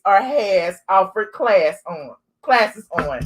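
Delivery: hushed spill-the-tea tone; gossip voice. Acted. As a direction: lean in and read it like juicy gossip. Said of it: "This our gossip voice".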